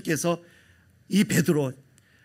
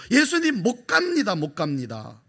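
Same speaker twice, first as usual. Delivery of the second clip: high insistent refusal fading to a mutter; Peter protesting; 4 semitones higher than usual. Acted. Peter stopping Jesus on the road, lightly voiced refusal. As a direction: plead then drop away.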